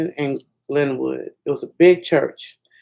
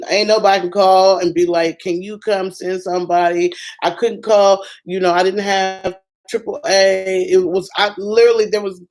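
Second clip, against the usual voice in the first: raised, anxious retelling; distressed; 3 semitones higher than usual. Retold or imitated. Pregnant mother stranded by the freeway, anxious and raised. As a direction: relive being stranded by the freeway.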